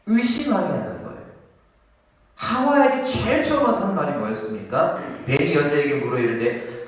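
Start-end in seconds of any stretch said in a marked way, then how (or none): none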